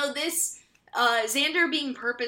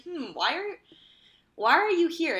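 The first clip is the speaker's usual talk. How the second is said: higher-pitched, lightly suspicious questioning; playful "this is sus" questioning, pitched up; mock suspicion; 5 semitones higher than usual. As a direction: pretend to grow suspicious of a stranger. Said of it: "that would be kinda sus".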